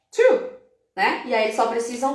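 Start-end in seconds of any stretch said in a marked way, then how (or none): 0.1-0.5 put-on high, bright child's answer. Teacher playing a child who counts syllables, high eager voice. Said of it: "as crianças amam apertar".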